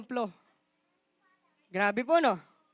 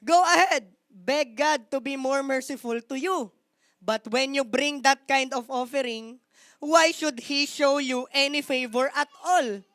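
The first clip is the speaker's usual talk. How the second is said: sarcastic. Acted. The Lord mocks priests' bad offerings, slow sarcastic taunt. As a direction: taunt them, slow and mocking. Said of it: "That is sarcasm".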